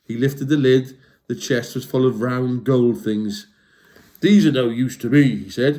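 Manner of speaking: lively storybook read-aloud; reading to children. A narrator's reading. Reading a troll story to young listeners, lively. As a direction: tell it like bedtime to kids. Reads a picture book aloud.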